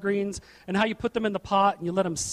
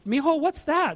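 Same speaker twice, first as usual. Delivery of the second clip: higher, lightly voiced Mexican mother-in-law; 5 semitones higher than usual. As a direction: play her asking about the food, a bit higher. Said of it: "'Cause she's Mexican".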